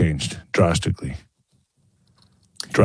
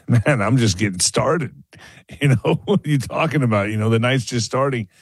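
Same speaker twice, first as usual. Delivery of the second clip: lightly mocking higher-pitched protest; laughing brush-off; 3 semitones higher than usual. Drinker answers his nagging inner voice, amused brush-off. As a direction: act out a breezy, half-laughed excuse.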